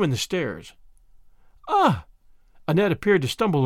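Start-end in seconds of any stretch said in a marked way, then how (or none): 1.7-2.1 high, short exclamation; acted cry of discovery; feigned surprise. A narrator's reading. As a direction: let out a little high "ah". Annette pretends to stumble on something.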